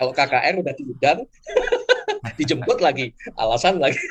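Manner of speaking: talking through bursts of laughter.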